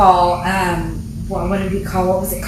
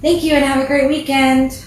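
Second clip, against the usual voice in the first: 1 customer service voice; 5 semitones higher than usual. Retold or imitated. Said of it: "I tell my customers".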